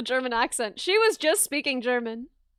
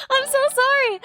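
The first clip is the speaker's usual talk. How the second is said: laughing apology; 7 semitones higher, 4 dB louder than usual. Real, not acted. Apologizing for a jump scare.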